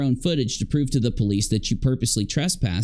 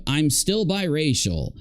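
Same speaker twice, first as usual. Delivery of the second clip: lightly mocking imitation, pitched higher; mock catchphrase; 4 semitones higher than usual. Commentator mimicking a streamer's catchphrase for laughs, mockingly. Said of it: "then I'd go".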